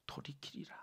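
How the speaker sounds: 돌이키리라 barely voiced, very soft; hushed repetition. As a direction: let 돌이키리라 hang in a whisper. Repeats key word for emphasis. (돌이키리라를 아주 작게 되뇌듯)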